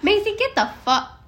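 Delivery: sharp high call at the dog; snapping at the dog. Real, not acted. Yelling at the dog.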